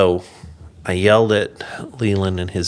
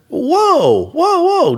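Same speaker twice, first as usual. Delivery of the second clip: high, loud startled whoa; hammed-up protest; mock alarmed whoa; 6 dB louder, much slower than usual. Retold protest about his wife.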